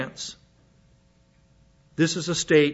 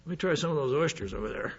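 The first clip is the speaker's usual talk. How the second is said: mock eager eater; 2 semitones lower, 11 dB quieter, faster than usual. Imitating someone eager to eat shellfish.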